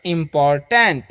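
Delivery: इंपॉर्टेंट in three beats, "im-pot-tent"; model pronunciation. Shown as a demonstration. Teacher models the word for students, careful pronunciation. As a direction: sound out इंपॉर्टेंट with a full "tent" ending. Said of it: "ऐसे पढ़ना है आपको".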